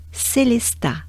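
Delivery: Célestat said as in French; careful French reading of Célestat; French place name. Shown as a demonstration. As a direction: pronounce Célestat clearly, the French way. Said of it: "saying all the names".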